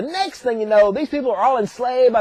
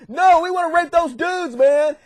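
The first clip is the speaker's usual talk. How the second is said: higher, insistent mock protest; pissed townspeople; 5 semitones higher, slower than usual. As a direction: play a hammed-up indignant mob. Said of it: "the townspeople are pissed".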